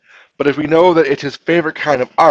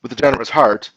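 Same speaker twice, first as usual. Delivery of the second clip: slower, listening for pauses; 2 semitones lower than usual. Shown as a demonstration. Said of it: "Let's read it a little slower and listen for the pauses".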